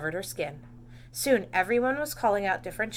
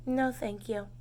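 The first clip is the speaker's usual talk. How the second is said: sighing; 4 dB quieter, slower than usual. Acted. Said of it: "sighed Camilla".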